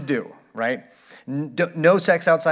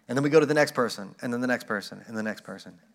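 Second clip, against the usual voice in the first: fading away; 5 semitones lower, 6 dB quieter, faster than usual. Acted.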